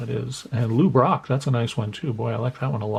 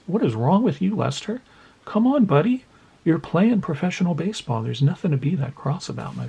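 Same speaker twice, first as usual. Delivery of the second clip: higher, teasing telling-off of a grumpy card; mock scolding; 6 semitones higher than usual. Telling off a cross-looking player on his card, mock scolding. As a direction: chide him like a sulky kid, playfully.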